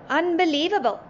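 high, emphatic exclamation; amazed cry. A narrator's reading. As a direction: cry out in awe, stretching the words. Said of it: "the passengers cried".

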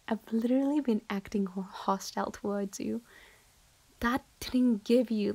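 a fed-up friend pushing someone away, often hushed; cold rejecting friend. Acted. To the clingy admirer who won't leave, cold and irritated.

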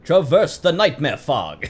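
loud, high, slow mock-epic prompt; hammed-up, drawn-out proclamation; dramatic readout. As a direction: declaim it like a grand game announcement. Reads game prompt dramatically.

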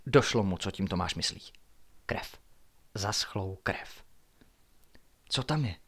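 measured, hushed suspense reading; story narration. A narrator's reading. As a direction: read a mystery aloud at night. Narrates a night-time story.

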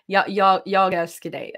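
Stockholm accent sitting in the throat; throaty Swedish. Shown as a demonstration. Demonstrating Swedish phrases, throaty Stockholm accent. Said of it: "like, in the throat".

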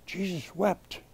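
low, soft and solemn; grave, subdued preaching; hushed solemnity. Real, not acted. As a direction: let it land quietly after a long pause. Solemnly dwells on Jesus weeping.

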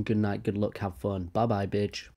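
fading sign-off. Acted. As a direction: let it fade away.

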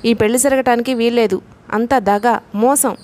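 ordinary delivery, nothing marked

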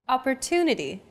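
Opportunity with a longer TU, the other syllables shorter; stress on TU. Shown as a demonstration. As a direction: stretch the third syllable of Opportunity. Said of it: "The stressed syllable to in opportunity".

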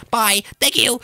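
high-pitched cheeky farewell; quick, excited yell; gleeful getaway. Pretend. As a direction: toss it out while fleeing with the loot. Grabs cookies and flees.

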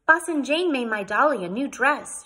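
put-on high, loud little-girl announcement; self-important child. A narrator's reading. Sudie showing her doll to Missus Frink, importantly. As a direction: inform the grown-up importantly. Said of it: "she informed her importantly".

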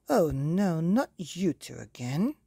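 loud weary fairy sigh-scold; fed up with the troublemakers; exasperated godmother. Acted. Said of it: "said the godmother".

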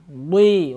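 "Ды" with a heavy, hard d; hard-consonant demonstration of "Ды". Shown as a demonstration. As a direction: say a firm, emphatic "Ды". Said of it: "Вот так".

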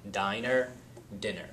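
"diner" with a long eye, then "dinner" with a short ih; long versus short i. Shown as a demonstration. A teacher showing "diner" and "dinner", long then short. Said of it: "Diner has your long I".

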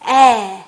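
"에" as the open apple vowel, jaw dropped; wide open vowel. Shown as a demonstration. Teacher modelling the apple vowel, "에" wide and open. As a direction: stretch "에" wide sideways with the jaw down. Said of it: "옆으로도 찢어지고 아래도 턱이 딱 내려가는 소리".

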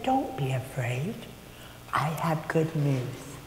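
soft, slow reassuring angel voice; calm the frightened shepherds softly; gentle angel. Retold or imitated. Angel reassures the frightened shepherds, softly and slowly. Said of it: "what the angel said".

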